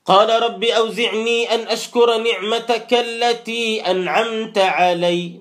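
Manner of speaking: slow, measured chanting of the verse; slowed, reverent recitation; Quran recitation. Acted. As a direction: recite it in drawn-out tajweed.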